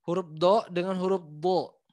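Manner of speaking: light do, heavy bo; thin versus thick. Shown as a demonstration. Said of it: "Beda nggak?".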